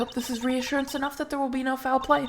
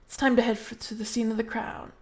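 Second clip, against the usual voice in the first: flat mechanical robot voice; 4 dB quieter than usual. Shown as a demonstration. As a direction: read it like a robot. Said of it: "read that in a robot voice".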